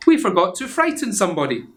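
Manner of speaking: big skeleton. Acted. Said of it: "he said".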